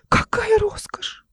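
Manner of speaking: very high, slow breathy gasp of awe; gasping whisper. A narrator's reading. Uncle peering into the chest, gasping in awe. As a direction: gasp it out in wonder. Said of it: "ахнул".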